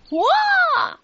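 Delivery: high, loud startled "wah"; storyteller's acted shriek; high-pitched girl's scream. A narrator's reading. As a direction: scream in fright as the girl. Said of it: "screamed Zoe".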